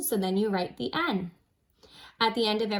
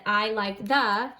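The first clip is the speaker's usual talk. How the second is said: slow reading voice; 3 dB louder, slower than usual. Shown as a demonstration. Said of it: "they said".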